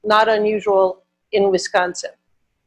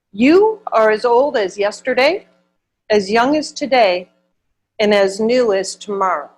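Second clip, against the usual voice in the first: poem reading. Acted. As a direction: read each line with weight, pausing. Reads poem aloud.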